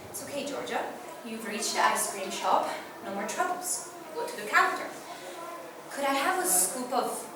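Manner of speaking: soft, halting pep talk to oneself; quiet self-reassurance. Acted. Girl steadying herself at the ice cream counter, quietly nervous. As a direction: reassure yourself softly, a little timid.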